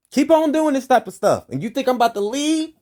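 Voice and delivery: defiant shout. Real, not acted. Daring the authorities, a high defiant shout. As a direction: shout the challenge right at them.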